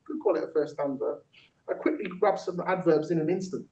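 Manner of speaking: rhythmic spoken-word verse; rap-like recital with deliberate gaps; poem performance. Acted. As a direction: land each line on the beat, pausing between. Performs own technique poem.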